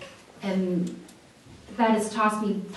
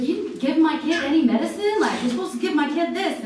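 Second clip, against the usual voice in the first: mock angry mother; 8 semitones higher, 3 dB louder, faster than usual. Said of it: "she's like".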